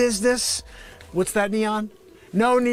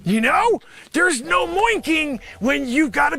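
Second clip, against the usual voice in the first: higher, fast exasperated shout; exasperated rant; 7 semitones higher than usual. Acted. Ranting about the pandemic.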